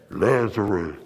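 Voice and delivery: Lazarus called from far off; a distant summoning call. Retold or imitated. Jesus calls Lazarus out.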